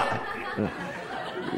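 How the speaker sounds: ordinary talk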